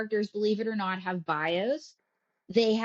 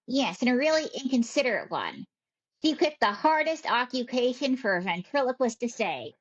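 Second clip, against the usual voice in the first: lightly voiced miffed puppet; a hint of complaining puppet diva; puppet May, put out. Puppet May complains about her sister, lightly voiced diva.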